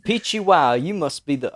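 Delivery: tentative mashup of Southern and German accents. Shown as a demonstration. Game master trying two accents on request, German-Southern. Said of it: "do a German accent in a Southern accent".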